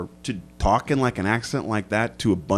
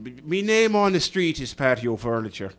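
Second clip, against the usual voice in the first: put-on Irish accent. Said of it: "you just became Irish there".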